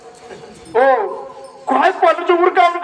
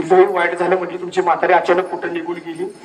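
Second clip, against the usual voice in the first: mock mourning; 7 semitones lower than usual. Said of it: "इतकी रडत होती ना तिथं ती".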